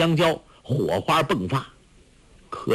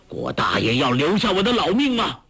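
stern rebuke; 7 semitones higher than usual. A narrator's reading. Ke Zhen'e turning on Guo Jing, stern rebuke. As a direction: rebuke him harshly. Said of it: "厉声喝道".

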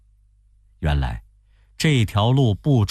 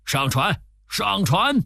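叫喊; 10 semitones higher than usual. A narrator's reading. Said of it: "又叫着".

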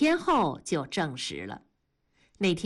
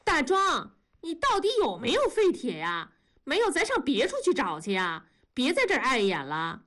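high calling voice across the yard; 5 semitones higher than usual. Acted. 梅梅在那边喊大庄，高声呼喊. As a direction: call out to him from over there. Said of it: "梅梅在那边喊".

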